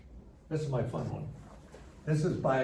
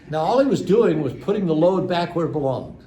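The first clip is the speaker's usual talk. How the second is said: usual speaking voice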